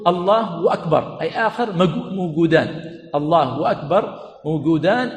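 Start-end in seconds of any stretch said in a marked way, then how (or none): 0.1-1.2 "أكبر" said as "وَأكبر", slowly; slow "Allah wa-akbar", as two separate things; added waw. Shown as a demonstration. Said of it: "أي بمعنى كأنه يقول". 3.1-4.2 slow "الله أكبر" with "wa" joining the two words; "Allahu wa-akbar", the hamza kept in "أكبر"; added waw. Shown as a demonstration. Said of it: "بالواو مع وجود الهمزة".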